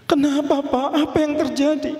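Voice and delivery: high, shocked demand for news; acted shock, voice jumping up; alarmed question. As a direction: ask in high-pitched alarm. Father hears wedding is cancelled.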